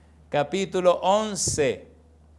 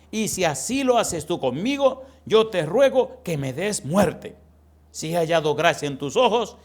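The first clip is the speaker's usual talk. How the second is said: raised anguished plea to God; desperate plea; 3 semitones higher, 5 dB louder than usual. Acted. Moses begging God to take his life, desperate. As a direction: cry out, begging to die.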